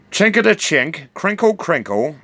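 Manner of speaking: high mimicked clinking and crinkling; sing-song imitation of jangling chains; imitated chain jingle. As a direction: chant the chink of chains.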